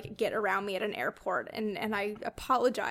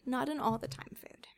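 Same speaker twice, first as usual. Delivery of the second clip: whispered deadpan aside; 8 dB quieter than usual. Real, not acted. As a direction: drop to a whisper for the punchline. Deadpan punchline about cookies.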